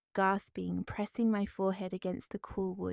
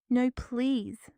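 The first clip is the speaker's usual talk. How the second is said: pleading no, a little higher and louder; imploring; 4 semitones higher, 4 dB louder than usual. Acted. Woman in labor begs her mother-in-law, pleading. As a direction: beg her to let go. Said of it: "I implored".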